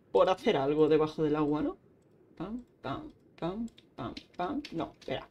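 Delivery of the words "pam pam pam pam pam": light, rhythmic pam-pam; quiet imitated thuds; soft "pam" sound effects. Real, not acted. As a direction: softly voice each action as a pam. Voicing own actions in game.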